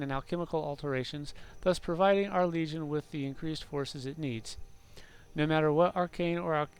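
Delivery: measured story narration; narrating in-game lore aloud; lore book reading. Acted. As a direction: read it out like a formal chronicle.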